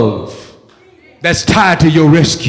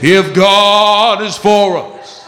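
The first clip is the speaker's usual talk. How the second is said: slow, stretched-out preacher's cadence; 3 semitones higher, much slower than usual. Shown as a demonstration. Preacher repeating the cue for congregation, in preacher voice. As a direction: draw it out like a preacher. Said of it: "Let me do it again".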